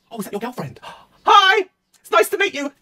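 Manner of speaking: overly nice mum greeting; sweet mum voice. Pretend. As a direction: mum suddenly all sweet and polite. Mum voice spots the girlfriend.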